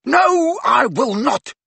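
high, loud, beside herself; yelling. Acted. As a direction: scream defiance, out of control. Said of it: "yelled Ginny beside herself".

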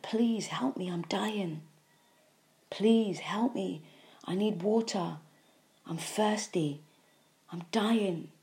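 mock plea of the body, with a whispered I'm dying; body begging for help. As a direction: plead like a thirsty dying body, lightly voiced. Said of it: "the body is crying and begging for help".

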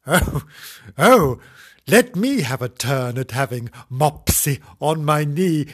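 lightly voiced child begging; pleading girl. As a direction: beg for a turn like a keen little girl. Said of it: "said Imogen".

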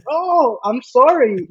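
high-pitched, drawn-out "oh" then sorry; lightly acted innocent sorry; mock apology. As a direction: play a surprised little apology, voice lifted. Acting out his mock apology.

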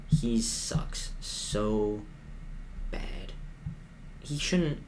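drawn-out disgusted sigh of a fan; slow, soft, fed-up; dragged-out quiet groan. Real, not acted. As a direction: stretch "so" out slowly and let "bad" fall almost silent. Fan venting about quarterback.

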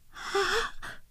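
shocked gasp. Acted. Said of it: "と口を押さえた".

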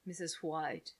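slow, low, solemn game narrator; computer game voice. Retold or imitated. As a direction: announce the turn like a serious computer voice. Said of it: "Did you ever play that game on the computer".

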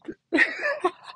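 high, squealing burst of laughter; shrieking laugh. Real, not acted. Cracking up at her own story.

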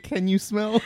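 The Rock catchphrase. Acted. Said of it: "Isn't it".

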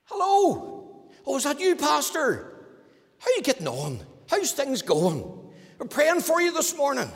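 high, sweet, overly friendly hello; sugary phone greeting. Retold or imitated. Preacher mimicking the hypocrite's sweet greeting to the pastor. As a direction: switch to syrupy charm for the pastor.

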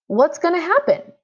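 high, insistent demand, rising to the end. A narrator's reading. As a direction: push him hard for an answer. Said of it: "I demanded".

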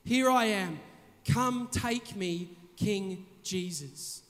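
soft, slow surrendering prayer; humble surrender. Retold or imitated. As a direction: whisper it up like a humble answer. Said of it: "and say".

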